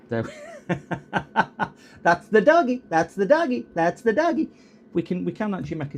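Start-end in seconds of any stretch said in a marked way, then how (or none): 0.1-4.5 cooing at dog. Real, not acted. Doting owner cooing baby talk at his dog.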